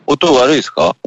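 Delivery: real degraded computer audio; walkie-talkie sound. Real, not acted. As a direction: ask it as if over a cheap transceiver. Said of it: "トランシーバーみたい".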